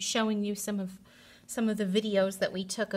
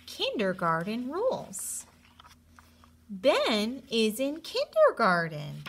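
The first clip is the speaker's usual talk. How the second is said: lively storybook reading to a class; animated read-aloud with character voices; reading to children. A narrator's reading. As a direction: read it like story time for kindergartners. Teacher reads picture book to class.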